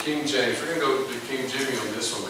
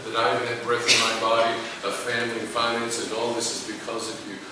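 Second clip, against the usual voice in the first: humble grateful prayer. Pretend. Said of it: "Walk humbly before God".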